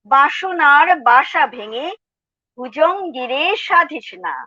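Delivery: lilting Bangla verse recital, pitch lifted a little; measured, expressive poetry reading; poem recitation. Acted. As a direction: recite it as verse, phrase by phrase with pauses.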